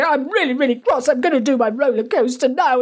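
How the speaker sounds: put-on a child announcing they're cross; imitating angry child. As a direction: play the sulky child, hammed up. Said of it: "if you've got a child that's angry and they go".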